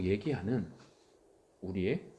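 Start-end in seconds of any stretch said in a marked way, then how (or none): 1.6-2.1 soft whispered ending. Acted. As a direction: let it fall to a whisper. Trailing whispered conclusion. (속삭임)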